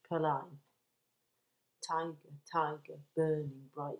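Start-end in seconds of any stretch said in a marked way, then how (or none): 1.8-4.0 "Tiger, tiger, burning bright" in four measured beats on TI, TI, BURN, BRIGHT; four marked stresses. Shown as a demonstration. Teacher demonstrating tetrameter, four stressed beats on "Tiger, tiger, burning bright". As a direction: count out the beat through "Tiger, tiger, burning bright". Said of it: "four stressed syllables".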